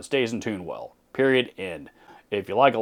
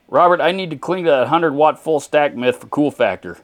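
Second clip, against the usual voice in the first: mock Texan accent; 5 semitones higher, 4 dB louder than usual. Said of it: "if you hear me break it out to make fun of something".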